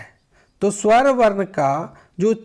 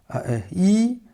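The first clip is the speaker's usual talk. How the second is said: short vowels demo; 3 semitones higher, much slower than usual. Shown as a demonstration. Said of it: "हर्ष ई, दीर्घ ई".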